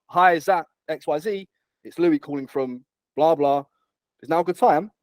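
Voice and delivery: bright, high, bouncy cold-call greeting; high energy phone pitch. Shown as a demonstration. Recruiter demoing his opener to a junior candidate, upbeat and high. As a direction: sell the excitement up and down in pitch. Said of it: "The, the pitch and tonality is up and down".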